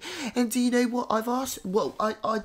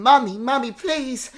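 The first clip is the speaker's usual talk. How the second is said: put-on little girl voice; 5 semitones higher, 11 dB louder than usual. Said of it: "she's saying".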